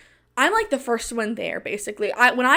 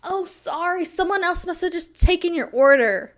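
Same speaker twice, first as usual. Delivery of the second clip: mock fake apology; 5 semitones higher than usual. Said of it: "they wanted to play it like".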